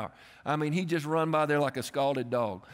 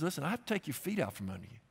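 God's quiet warning; 8 dB quieter, faster than usual. Retold or imitated. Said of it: "sometimes God says".

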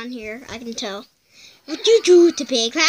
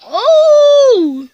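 shrill shriek; 9 semitones higher, 8 dB louder than usual. Real, not acted. Startled by cat video.

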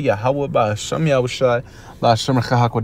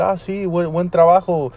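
fake praise; 4 semitones higher than usual. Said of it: "yo no voy a decir".

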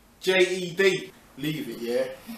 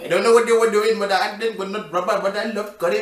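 put-on Indian accent; much faster than usual.

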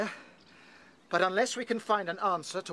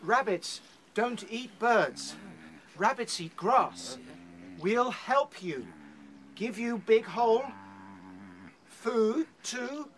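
slow, spelled-out words for a foreigner; patient slow pidgin; slow simple talk; 4 semitones higher, slower than usual. Acted. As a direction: talk down slowly so the bird understands. Talking simply to foreign bird.

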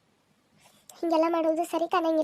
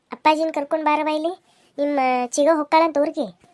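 calling out; 6 dB louder than usual. Acted. Calling daughter from another room.

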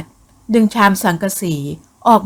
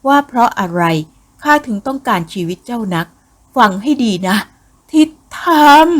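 vengeful snake spirit; 3 semitones higher than usual. Acted. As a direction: confront the victim, lifting hard on the final name.

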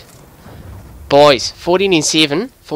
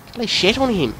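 excited crowing; 8 semitones higher than usual. Real, not acted. Gamer reacting to a kill, excited crowing.

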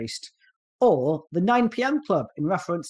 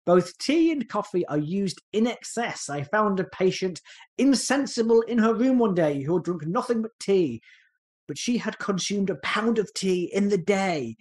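mock posh voice, pitched up and deliberate; lightly hammed-up posh English accent; Norman Kerr; 4 semitones higher than usual. Temperance doctor reporting a tea-drinking patient, mock posh accent. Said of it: "posh voice whenever I do an impression".

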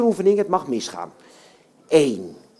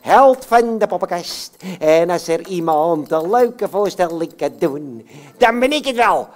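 puppet voice; 3 semitones higher, 4 dB louder than usual. Acted. Puppet Jan Klaassen voice.

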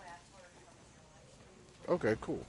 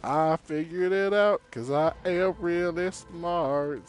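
mock boast; 5 semitones higher, slower than usual. Real, not acted. Gamer boasting after solving puzzle.

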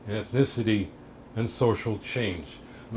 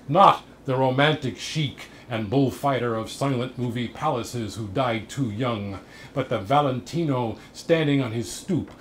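emphatic opening, then steady verse recital; poetry reading. Acted. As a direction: declaim it in long, rolling phrases. Reads second sonnet aloud.

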